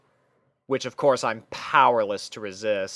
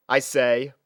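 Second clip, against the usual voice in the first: ordinary delivery, nothing marked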